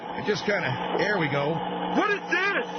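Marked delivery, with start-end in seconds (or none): 2.0-2.7 put-on high child's voice; hyper boy. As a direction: ask like a curious hyper kid. Son voice.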